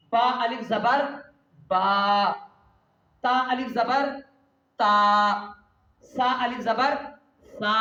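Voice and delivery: sing-song spelling drill for pupils; drawn-out recitation. Shown as a demonstration. Teacher drilling Urdu letters aloud, stretched chant. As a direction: chant each letter, stretch the long vowel. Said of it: "कैसे पढ़ेंगे वो मैं आपको बता रहा हूँ".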